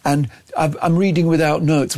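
lightly mocking imitation of a self-satisfied politician; mock a pompous first speech; a hint of puffed-up pride; proud Andy Burnham. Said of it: "he was so proud".

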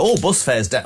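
a light northern English accent, mocking a pleased voter; lightly put-on northern English voice. Imitating a northern voter cheering cheap buses, in a light northern English accent. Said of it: "Why am I doing that northern accent again?".

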